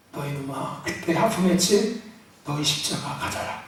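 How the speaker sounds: a hint of a stern Lord, soft and low; low stern Jesus. Pastor voicing Jesus to a yawning member, low and stern. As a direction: hand the cross back with quiet authority.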